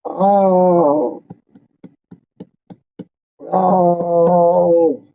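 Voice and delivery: near-tears sigh; a welling, choked breath of emotion; real emotion catching in the throat. Real, not acted. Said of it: "I could cry right now".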